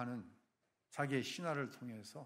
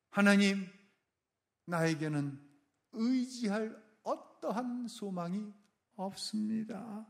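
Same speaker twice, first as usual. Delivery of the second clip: helpless plea to God; 2 semitones higher, slower than usual. Retold or imitated. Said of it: "이런 내용이에요".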